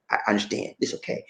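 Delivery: soft, low reassurance; reassuring. Retold or imitated. Customer telling an embarrassed clerk it's okay, softly reassuring. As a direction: let them off quietly and gently. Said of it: "I try to reassure them".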